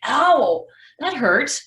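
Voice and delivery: reliving the sudden pain of the bump; retold ow. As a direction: yelp it like the bump just hit. Bumps into bike rack, cries out.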